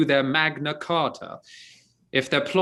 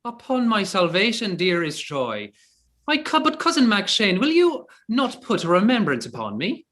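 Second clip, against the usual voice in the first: Irish brogue; 4 semitones higher than usual. Acted. Archer greeting the priest as his cousin, in a hearty Irish brogue. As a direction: greet him as a long-lost Irish cousin. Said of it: "His brogue will hang mine".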